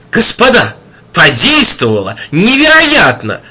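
high amazed cry; excited exclaim. A narrator's reading. Bystander exclaiming at the miracle, excited. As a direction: exclaim it in wonder. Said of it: "воскликнул кто-то".

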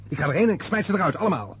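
fast, hot-headed threat to throw them out; angry outburst. Acted. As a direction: son snapping furiously at his mother's guests, fast and angry. Son furious at mother's party.

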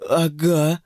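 plain reading voice

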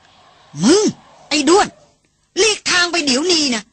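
put-on old hunter threatens the elephant, yelling; shouting at full voice. A narrator's reading. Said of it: "ตวาดสุดเสียง". (ตวาดสุดเสียง ขู่ช้าง เสียงสูง)

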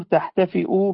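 تحتفئ ending in a glottal stop and u; تحتفئ said as tahtafi'u; with hamza. Shown as a demonstration. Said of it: "بالهمزة".

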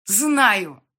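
loud furious spit of a word; spat in anger. Acted. Heroine spitting her answer at Yan, furious. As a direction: throw it back at him in rage. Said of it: "выплюнула я с не меньшей злобой".

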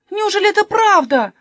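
high, loud outraged yell. Acted. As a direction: shout it out in disbelief. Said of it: "заорал Каспер". (громкий возмущённый крик)

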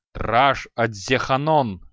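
slow, loud barked incantation repeated; roared spell. Acted. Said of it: "повторил Креол". (громко рявкнутое заклинание)

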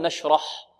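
"نشرح" with the final ha thickened like the ra; wrong heavy ha. Shown as a demonstration. Teacher showing students what not to say, thickened final ha. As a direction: make the ending of "نشرح" too heavy. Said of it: "لا نقول".

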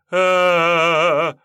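long high scream of pain. A narrator's reading. Kocherysh screaming from the mark's pain. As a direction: let out a loud agonised howl. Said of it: "Его корёжит от боли".

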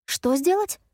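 can't believe what he asked; incredulous. A narrator's reading. Effie told to climb on the roof, high with disbelief.

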